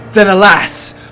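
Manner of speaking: loud, high cry of woe; dramatic lament. Acted. Sandwich maker's triumph is ruined, loud lament. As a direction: wail it like a tragedian. Cries out as disaster strikes.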